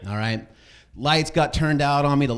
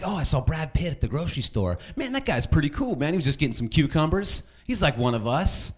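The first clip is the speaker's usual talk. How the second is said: high, airy starstruck gush; gushing fan voice; 8 semitones higher than usual. Retold or imitated. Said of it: "Like, celebrity stories".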